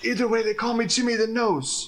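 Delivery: hoarse put-on character voice. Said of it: "I either sound like Jackie Estacado or somebody who's got a really bad case of laryngitis".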